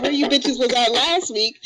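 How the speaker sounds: half-hearted retold holler; retold yell. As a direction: call it out slowly, no real shouting. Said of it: "I was yelling out".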